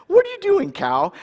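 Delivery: high-pitched startled question. Retold or imitated. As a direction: shriek in disbelief. Pushed by a cow.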